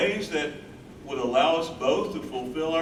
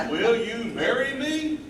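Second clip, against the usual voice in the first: laughing proposal; 6 semitones higher, 3 dB louder than usual. Acted.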